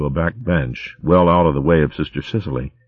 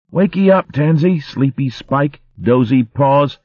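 high, giddy little Dibbun voice; excited child voice; 10 semitones higher, slower than usual. Acted. Little Arvin teasing Tansy awake, high and giddy. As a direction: squeal it like a small child waking a friend. Child waking friend with pillow.

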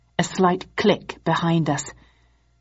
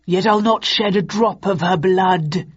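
crackly mannequin voice; 3 dB louder than usual. Acted. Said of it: "crude voice box crackled".

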